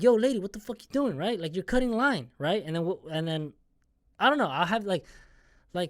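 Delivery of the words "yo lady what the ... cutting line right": imagined telling-off. Pretend. Imagined confrontation with line cutter.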